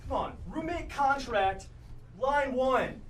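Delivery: arguing roommate, slowly hammering each phrase; insistent roommate. Acted. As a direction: lay down the rule point by point. Acted roommate quarrel over the temperature.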